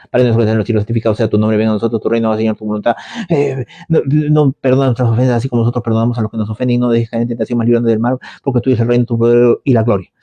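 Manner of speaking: mechanical, hurried Our Father; a hint of praying by rote; rattled-off prayer. Believer racing through the Our Father, mechanical and low. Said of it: "agarra y comienza".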